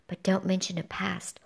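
hushed warning whisper. A narrator's reading. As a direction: whisper it like a dark secret.

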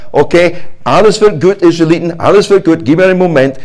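lightly voiced hasty reassurance; nervous Moses. Moses stalling the Israelites, mild forced cheer. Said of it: "sowas gemacht hat".

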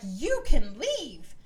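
imitating the housewives dismissing Monica; mock cold dismissal. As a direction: spell each word out to show her the door.

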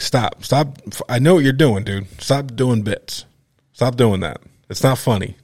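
firm, rising anger, stopping him cold; stern scolding. Retold or imitated. Comic tearing into a newcomer, stern and angry. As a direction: shut the guy down hard.

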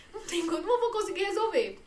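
half-laughing exasperated cry; exasperated outburst. Retold or imitated. Retold outburst, measures high.

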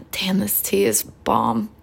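slow, soft whisper over her tea; whispered aside. Real, not acted. Sipping tea, she whispers a happy aside to herself. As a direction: murmur it to yourself between sips.

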